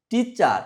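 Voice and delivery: high first syllable টি in টিচার, falling after; stress on TEA. Shown as a demonstration. Teacher shows pupils the clap syllable, high stressed টি in টিচার. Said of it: "টি উচ্চারণের সময় তালি দিতে হবে".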